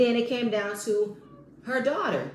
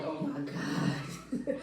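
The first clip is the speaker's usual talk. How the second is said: low, hushed, drawn-out dismay; soft, slow mock despair; exasperated disbelief; 6 semitones lower, 7 dB quieter, much slower than usual. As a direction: drag it out slowly under your breath. Own exasperated reaction, acted out.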